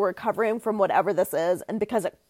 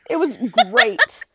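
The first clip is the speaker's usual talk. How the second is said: laughing; slower than usual. Real, not acted. Laughing memory of con.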